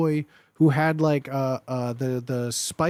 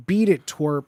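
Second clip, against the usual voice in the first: bully taunt. Pretend. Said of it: "This is, like, classic".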